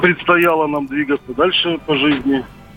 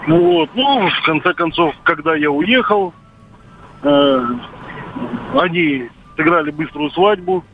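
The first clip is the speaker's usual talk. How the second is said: over a landline phone. Real, not acted. Caller on radio phone line.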